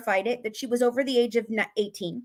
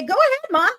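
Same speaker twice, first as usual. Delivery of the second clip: defiant daughter; 4 semitones higher than usual. Retold or imitated. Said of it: "Does Gypsy say".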